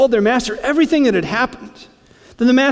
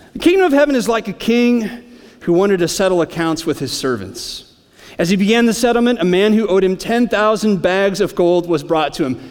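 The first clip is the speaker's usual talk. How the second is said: measured, slightly lifted reading of the parable; scripture reading. Acted. Preacher reading scripture to the church, measured. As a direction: read the parable out to the congregation.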